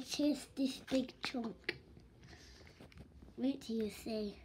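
hushed unvoiced whisper. Real, not acted. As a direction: whisper it like a secret.

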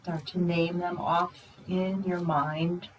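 unhurried, hushed meditation guide; guided meditation. Real, not acted. Teacher guiding meditators through the senses, quiet guided meditation. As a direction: ease them inward, leaving long pauses.

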